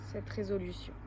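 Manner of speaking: measured yoga nidra guidance with long pauses; guided relaxation. Acted. Yoga teacher guiding listeners to lie still and let go, guided relaxation. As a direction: lead them into rest, phrase by phrase, clearly voiced.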